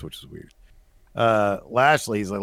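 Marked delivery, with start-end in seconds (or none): 0.0-0.5 whispered aside. Real, not acted. Quiet aside after description.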